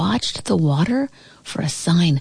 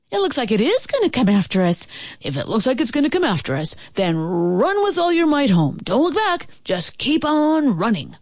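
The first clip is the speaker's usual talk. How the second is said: high, urgent, rushed then stretched warning; 6 semitones higher than usual. A narrator's reading. Father tells children to run from the monster, high urgent warning. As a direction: rush the alarm, then urge them on in a high voice.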